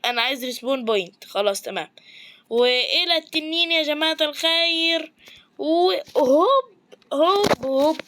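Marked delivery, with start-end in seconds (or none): 5.6-8.0 high, loud, stretched hop; excited hop. Real, not acted. Gamer shouts as he jumps toward the dragon. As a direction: launch the hop like a leap.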